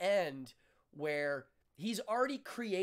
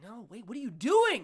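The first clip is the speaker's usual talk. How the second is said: louder upset crowd cry; a bit louder, alarmed question; crowd protest; 5 semitones higher, 8 dB louder than usual. Retold or imitated. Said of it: "And then they're like".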